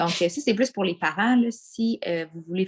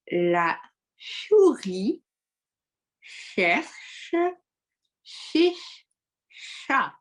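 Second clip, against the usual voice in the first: pencil in mouth; 5 semitones higher, much slower than usual. Shown as a demonstration. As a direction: say it slowly around a pencil. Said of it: "les ch à dire avec un crayon dans la bouche".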